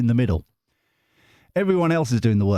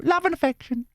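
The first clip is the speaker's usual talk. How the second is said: high-pitched viewer voice. Retold or imitated. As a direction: read her message in a silly squeak. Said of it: "you haven't read that bit".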